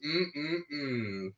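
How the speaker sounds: drawn-out mms of enjoyment, not actually loud; imitated yummy noises; yummy eating noises. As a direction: hum contentedly as if savouring food. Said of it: "very loud yummy noises".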